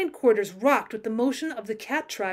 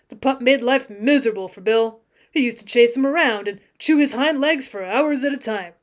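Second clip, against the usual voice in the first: louder, lightly voiced cowboy yarn; earnest cowboy; 5 dB louder than usual. Cowboy explains the pet's escape, steady and earnest. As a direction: spin the tale steadily and earnestly.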